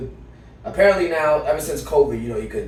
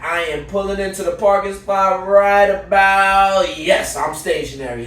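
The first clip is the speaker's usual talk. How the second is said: mock nonchalant driver; 5 semitones higher, 6 dB louder than usual. Voicing the driver.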